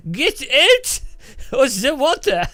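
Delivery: high, loud mock furious French policeman; mock French cop chasing the Englishman off; angry French cop. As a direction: yell it like an outraged gendarme.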